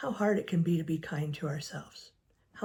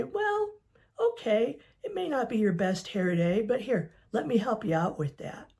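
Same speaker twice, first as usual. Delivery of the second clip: bright, upbeat helpful-friend voice, higher and louder; kind friend; 4 semitones higher, 4 dB louder than usual. Acted. A friend reassures someone having a bad hair day, upbeat and higher. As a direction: cheer them up like a good friend would.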